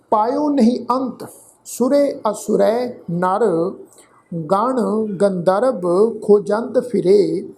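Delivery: slow, careful scripture reading; slow recitation. Shown as a demonstration. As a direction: recite each phrase slowly for students. Recites scripture slowly for learners.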